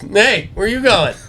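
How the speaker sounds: high-pitched friendly call; imitating dad coaxing a deer; sweet-talking. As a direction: call it back, high and chummy. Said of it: "Talk sweet to him".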